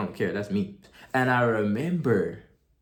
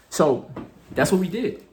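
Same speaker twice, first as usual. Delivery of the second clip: excited; 8 semitones higher, 6 dB louder than usual. Real, not acted. Still thrilled after agreement.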